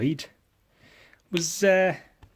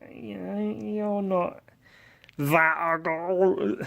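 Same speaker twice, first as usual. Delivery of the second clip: high, slow mock reassuring voice; imitating reassuring people; 7 semitones higher than usual. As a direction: mimic people fumbling a compliment, pitched up and slow. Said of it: "But people go".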